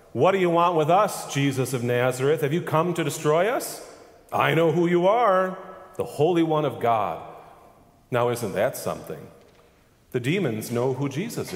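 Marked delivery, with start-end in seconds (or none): 0.1-7.2 loud, high demonic cry. A narrator's reading. Possessed man cries out at Jesus, loud high demonic cry. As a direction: shriek it at Jesus in terror. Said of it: "cried out".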